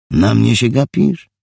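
loud, high, challenging; gruff challenge. Acted. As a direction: bark it at him. Thug confronting Richard in bar.

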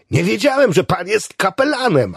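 high, loud, thrilled exclamation; delighted cry. A narrator's reading. Patient marvels at meeting a chaplain, delighted. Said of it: "krzyknął zachwycony".

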